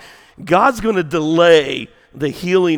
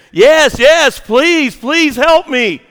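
high, loud, desperate begging; screamed plea; 11 semitones higher, 9 dB louder, slower than usual. Acted. Hanging man begs voice from sky, screamed plea. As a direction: cry out each plea in swooping high bursts. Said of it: "cries back out and he screams".

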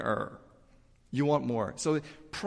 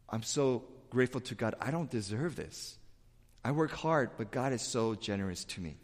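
soft, hushed thanks to God; a quiet, humble prayer of thanks; humble gratitude; 3 semitones lower, 7 dB quieter than usual. Retold or imitated. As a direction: murmur it humbly, in awe.

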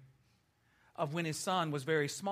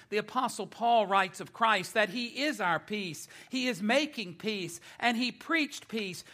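raised, emphatic pulpit delivery; preaching; 4 semitones higher, 5 dB louder than usual. Acted. Preacher explains God's unique peace, emphatic preaching. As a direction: proclaim it to the congregation point by point.

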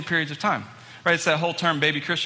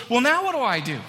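high-pitched imitation of an eager beginner; eager question; 9 semitones higher, 3 dB louder than usual. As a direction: ask it raring to go. Eager Mike asks for next step.

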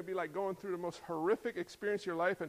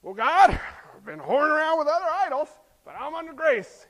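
louder, breezy excuse to God; smug sinner; 7 semitones higher, 10 dB louder than usual. Pretend. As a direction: toss off the sin casually. Sinner addresses God smugly.

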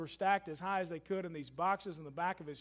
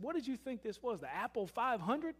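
grinning tease; 4 semitones higher, 3 dB quieter than usual. Retold or imitated. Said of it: "with a grin on his face".

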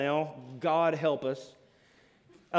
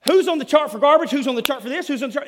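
higher and louder, impatient demand; demanding nagging tone; 9 semitones higher, 11 dB louder, faster than usual. Shown as a demonstration. Parent demanding who has garbage duty, loud and impatient. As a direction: grill them like a frustrated parent. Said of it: "there's a difference in going".

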